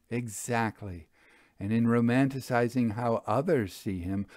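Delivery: measured, unhurried storytelling read; story narration. A narrator's reading. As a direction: read it like a mystery novel, calm and even. Author reads story aloud.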